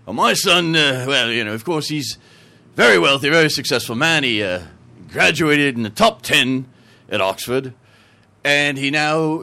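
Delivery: lightly put-on English accent; a hesitant, bragging Englishman. Englishman in a joke bragging about his son, English accent. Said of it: "the Englishman, he goes".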